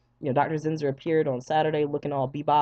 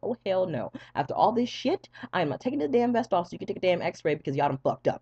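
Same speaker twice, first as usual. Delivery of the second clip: defiant refusal; 5 semitones higher than usual. Retold or imitated. Refusing to take off vest.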